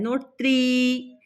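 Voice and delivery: त्रि with a short i, said slowly. Shown as a demonstration. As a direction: clip the vowel in त्रि. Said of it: "छोटी की मात्रा है".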